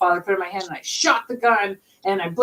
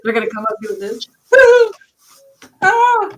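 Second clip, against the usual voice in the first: higher, laughing tough talk; higher laughing taunt at the ghosts; mocking bravado; 10 semitones higher, 3 dB louder than usual. Real, not acted. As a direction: scoff at the ghosts. Mock threat, laughing.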